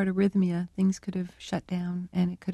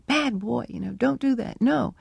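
mock scolding; 4 semitones higher than usual. Researcher retelling how they scolded the parrot, mildly cross. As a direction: imitate scolding a naughty pet, mildly. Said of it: "we'd get angry at him".

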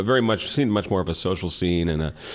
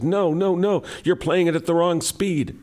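mock screaming; 10 semitones higher than usual. Woman screaming at the DJ from below the stage, mock scream. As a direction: imitate an outraged dancer screaming up at the stage. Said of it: "she was screaming, says".

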